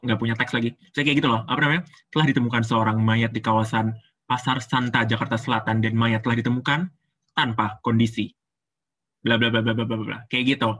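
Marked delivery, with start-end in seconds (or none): 2.1-8.3 low newsreader voice with gentle rise and fall; low-pitched, measured bulletin delivery; news anchor. Shown as a demonstration. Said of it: "Dia ngambilnya yang rendah". 9.2-10.2 low mock news read, fading out; news anchor. Shown as a demonstration. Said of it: "Dia ngambilnya yang rendah".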